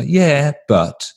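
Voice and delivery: reluctant yeah but. Retold or imitated. Quoting hesitant meeting answer.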